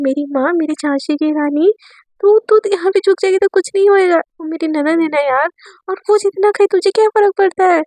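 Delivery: fed-up sister talking sense into her; exasperated scolding. Acted. Aisha scolds Divya over the taunt, exasperated.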